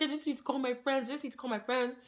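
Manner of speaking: mock crying. Crying girl insisting she just needs her friends, mock tearful. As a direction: imitate herself pleading through tears. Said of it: "And I was crying".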